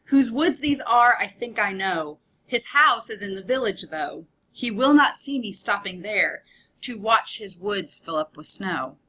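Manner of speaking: verse falling naturally into a rhythm; quick poem reading. Shown as a demonstration. Teacher reads Frost stanza from the book, natural rhythmic reading. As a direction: read the stanza through, letting the beat lead. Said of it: "I read that pretty fast".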